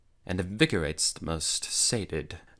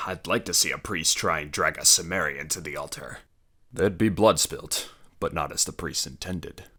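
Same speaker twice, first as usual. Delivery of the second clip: growling threat; 3 dB louder than usual. Acted. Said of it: "Conan growled".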